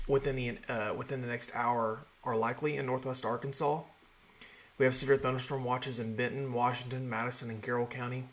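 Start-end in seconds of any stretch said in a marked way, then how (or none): 4.8-8.2 talking around a sore mouth; with a mouth ulcer. Real, not acted. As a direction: speak carefully, mouth sore. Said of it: "I have a sore in my mouth that hurts really bad when I talk".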